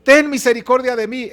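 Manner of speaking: acted plea building to a stronger final cry; blind beggar's plea. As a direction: plead as a wretched man begging for mercy. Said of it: "Escuche lo que está diciendo este hombre".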